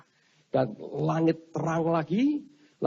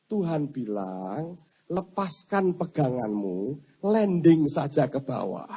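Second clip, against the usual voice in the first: slow weary angel; slower than usual. Acted. Weary angel relays God's message.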